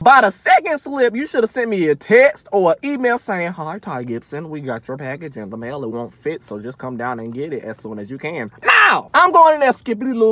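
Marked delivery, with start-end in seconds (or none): 3.5-8.5 softer, lower prim office voice; mock polite clerk. Ranting vlogger mimics post office clerk, prim and lower. 8.6-10.3 mock carefree skip. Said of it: "going in there casually".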